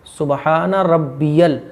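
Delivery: slow, stretched "सुबहान रब्बियल"; correct pronunciation. Shown as a demonstration. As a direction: space out each syllable of "सुबहान रब्बियल". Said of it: "वो रब्बियल है।". ("सुबहान रब्बियल" खींचकर, सही)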